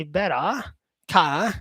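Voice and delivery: "better" with Australian accent, ending "betta". Shown as a demonstration. Teacher showing viewers his Australian "better". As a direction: say "better" the Aussie way, open "ah" at the end. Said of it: "I really like the Australian accent".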